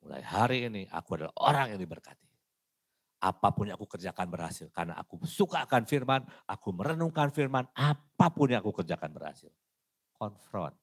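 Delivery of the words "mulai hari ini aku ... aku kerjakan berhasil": confident declaration. Retold or imitated. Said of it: "Tuhan berkata".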